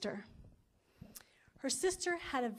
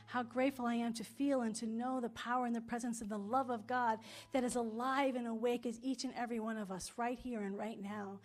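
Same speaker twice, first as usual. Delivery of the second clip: affirmative prayer; 3 dB louder than usual. Acted. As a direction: pray it out, rising with conviction.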